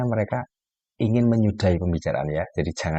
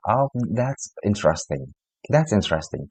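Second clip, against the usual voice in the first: flat interesting. Retold or imitated. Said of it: "Tanpa ekspresi wajahnya".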